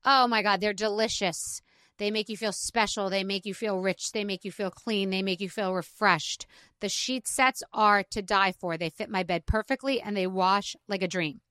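easy, upbeat sponsor read; a breezy host-read ad. Acted. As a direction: sell the sheets like a friend. Reads an ad.

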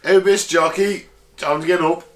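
lightly voiced robot servant; butler robot. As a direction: play a robot butler rousing its owner. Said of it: "I'm your butler robot now".

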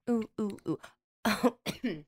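choking and coughing, breathy; struggling to speak through a choke. Real, not acted. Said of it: "I'm choking now".

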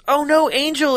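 a high lightly voiced panicked cry; mock worried girl. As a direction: squeak out a worried cry for the child. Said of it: "she goes".

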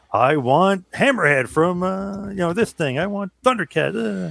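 put-on high, slow, eager child wishing for toys; excited kid voice. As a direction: play the little kid begging for toys. Child circling toys in catalog.

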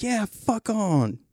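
high, slow, sneering put-on voice; parting jab. Neighbor's parting jab as narrator walks away, slow and sneering. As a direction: drawl the neighbor's parting shot. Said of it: "he's like".

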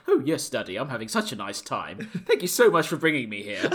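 lightly voiced grateful pet; a hint of a put-on dog voice, amused; dog's imagined voice. Owner voicing his dog replying on a walk, lightly put-on voice. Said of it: "in my head, she's, like, replying".

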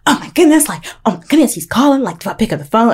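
high, fluttery retold panic; freaking out girlishly. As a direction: act out a little girl's freak-out. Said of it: "I start freaking out like a little girl".

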